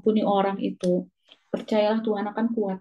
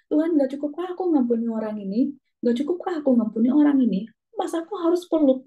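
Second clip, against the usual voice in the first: exasperated protest; 4 semitones higher than usual. Retold or imitated. Protesting to God, angry.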